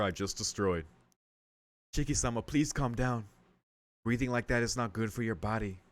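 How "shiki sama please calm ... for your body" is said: lightly voiced formal maid; careful, measured questioning as a servant; polite, concerned maid.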